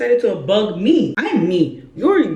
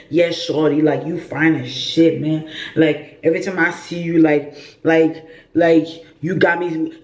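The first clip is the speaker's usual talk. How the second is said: a hint of an American movie flirt, slightly lower; lightly imitating an American movie-style smooth talker; mock American movie guy; 3 semitones lower than usual. Mocking how he talks, a light American accent. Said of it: "you know the way those Americans talk".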